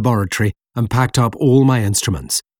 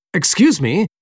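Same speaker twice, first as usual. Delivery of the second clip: polite appeal; 8 semitones higher than usual. A narrator's reading. Stranded narrator addresses harbour locals.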